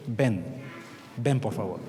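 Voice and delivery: wife quietly urging someone to come; soft plea. Acted. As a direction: coax gently, barely voiced.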